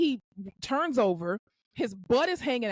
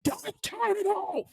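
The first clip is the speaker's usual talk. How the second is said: slow, high, drawn-out mock yell; mock outburst; 9 semitones higher, much slower than usual. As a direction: imitate a patient going off, stretching every word. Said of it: "he just went off".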